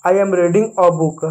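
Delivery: slow, each word clear; slow pronunciation demo. Shown as a demonstration. Teacher pronouncing the sentence for children, slowly. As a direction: model it carefully for beginners. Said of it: "इसका उच्चारण करेंगे।".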